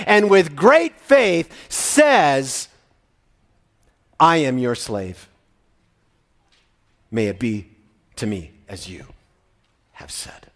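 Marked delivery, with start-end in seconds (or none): 4.2-10.5 softly, fading to a whisper at the end; quiet, humble reply. Retold or imitated. Mary answers the angel in humble faith, hushing to a whisper. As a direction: murmur it in quiet faith, dying away. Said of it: "simply quietly".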